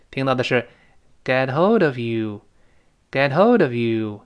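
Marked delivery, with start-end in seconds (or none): 1.2-4.2 "get hold of you" slowly, ending in view; slow model of "get hold of you", words joined; linked phrase. Shown as a demonstration. Teacher shows what is heard, slow linked "get hold of you". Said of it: "是这么一个声音".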